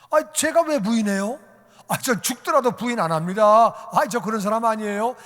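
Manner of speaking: high, loud, indignant protest; acted-out cocksure vow, building to emphatic; big-talking boast. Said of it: "큰 소리 빵빵 쳤는데".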